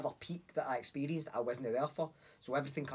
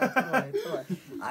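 higher, louder, baffled whine; bewildered; 10 semitones higher, 6 dB louder, much faster than usual. Retold or imitated. Coming back from the trip, baffled high whine. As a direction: sound lost and confused. Imitating his confused self.

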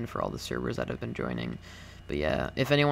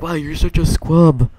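high loud mocking shriek; 5 semitones higher, 15 dB louder than usual. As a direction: shriek it like a whiny viewer. Quoting viewers in a put-on voice.

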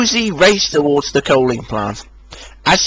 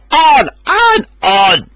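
louder chant; shouting trucks; 11 semitones higher, 5 dB louder, slower than usual. A narrator's reading. Trucks egging Rosie downhill, a loud chant. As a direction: egg her on. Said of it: "they shouted".

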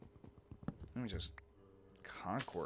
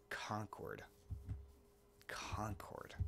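whispered; 12 dB quieter, much slower than usual. Real, not acted. Whispering a name, puzzled.

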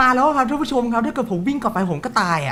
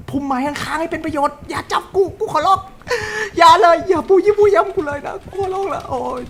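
mock tearful begging; 5 semitones higher than usual. Real, not acted. Begging the killer not to catch him.

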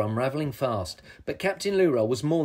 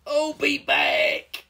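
high, drawn-out villain's vow; defiant troll; 13 semitones higher, 3 dB louder, much slower than usual. A narrator's reading. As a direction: wail the threat while vanishing. Defeated troll vows return.

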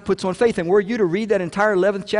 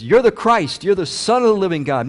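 bold declaration; 3 semitones higher, 5 dB louder than usual. Retold or imitated. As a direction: announce it boldly to Jesus. Peter speaks up to Jesus.

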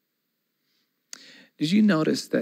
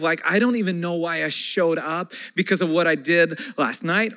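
1 impassioned plea; 3 semitones higher, 4 dB louder than usual. Retold or imitated.

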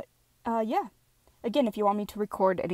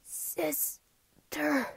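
mournful cry; 6 semitones higher, 5 dB quieter than usual. Acted. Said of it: "Let me try that again".

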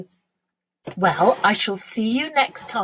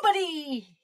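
higher-pitched and softer, falling; tender king; 6 semitones higher, 5 dB quieter than usual. A narrator's reading. King kissing the queen, tenderly. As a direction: coo it to a sweetheart. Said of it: "as he kissed her tenderly".

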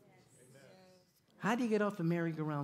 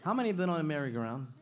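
rapid loud repeated question; 3 semitones higher, 6 dB louder, faster than usual. Real, not acted. Asks crowd again.

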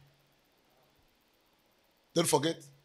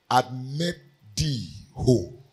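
slow emphasis; 2 semitones lower, slower than usual. Shown as a demonstration. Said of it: "A very important point".

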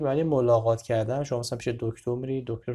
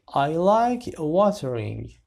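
louder model; 3 semitones higher, 5 dB louder, much slower than usual. Shown as a demonstration. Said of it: "first take, louder".

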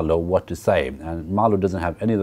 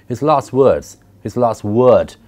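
louder, pressing insistence; insistent; 3 semitones higher, 6 dB louder, slower than usual. A narrator's reading. The Intended pressing Marlowe for his last words, insistent and loud. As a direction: insist on it, pushing hard. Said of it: "she insisted".

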